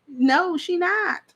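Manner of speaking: high, slow, drawn-out sassy denial; mock certainty. Real, not acted. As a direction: drag it out like it's obvious. Mocking Wendy not showing up.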